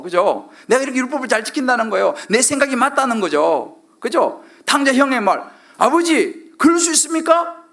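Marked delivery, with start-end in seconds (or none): 5.8-7.6 high-pitched mock indignation; angry protest. Elder brother challenging his father, acted angry protest. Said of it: "화를 내는 거예요".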